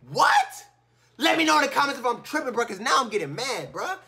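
loud, fast, high complaining; getting mad. Real, not acted. Gamer venting to viewers about the game, loud fast rant. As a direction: vent to the viewers in a rush.

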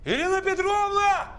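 high, panicked call for help. Acted. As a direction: yell for help across the flat.

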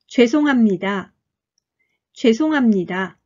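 죄송합니다 with 합 said as 함, nasal before 니다; nasalized hamnida. Shown as a demonstration. Teacher models 죄송합니다 for learners, with 합 nasalized to 함. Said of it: "합니다のように発音しましょう".

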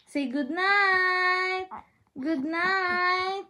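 slow singsong good night; drawn-out bedtime coo. Real, not acted. Coaxing baby to say it.

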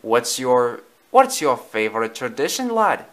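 put-on Scottish-accented question; Jock. Jock asks Tramp's favourite tradition, Scottish accent. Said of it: "a voice with a thick Scottish accent".

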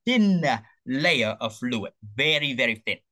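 THIN drawn out with a pause after it; stress on THIN. Real, not acted. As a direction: lean hard on the word "thin". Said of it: "emphasis on thin".

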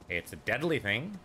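lilting, teasing suggestion that swings up; mock-innocent reply. Answering the player's "Is that a thing?", mock-innocent. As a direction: lightly voice someone offering an unhelpful answer. Voices an imagined reply to himself.

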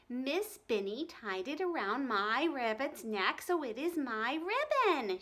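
slow, insistent and rising. Acted. Ramona insists to Howie the ribbon is hers, her voice rising. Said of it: "Her voice was rising".

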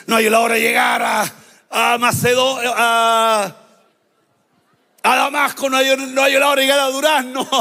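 impatient shouted eagerness; can't wait to get there, call it out; preacher voicing eager Saul; eager shouting. Saul eager to reach Damascus.

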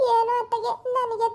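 tearful break in the voice; crying. Acted. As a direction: voice catching on a sob. Mother weeping over jailed daughter.

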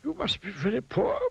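high-pitched, kindly wizard voice. A narrator's reading. Wizard remarking to Mister Mean on his poverty, kindly. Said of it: "he remarked kindly".

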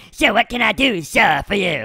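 lightly put-on British butler accent. Butler offering service to his boss, mock British accent. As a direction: play a polite British servant. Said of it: "Why are you talking with a British accent".

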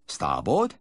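a hint of a questioning helmsman; lightly voiced helmsman; helmsman's reply. A narrator's reading. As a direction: echo the order back. Helmsman repeating the order.

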